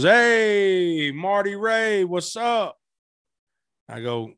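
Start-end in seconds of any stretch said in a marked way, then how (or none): 0.0-2.8 impression of a rapper. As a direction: raise your pitch and call out like a star on the phone. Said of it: "And he goes".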